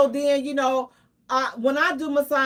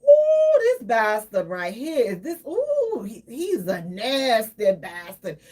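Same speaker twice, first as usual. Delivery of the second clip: gossiping church lady; 2 semitones lower, slower than usual. Retold or imitated. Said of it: "They would been like".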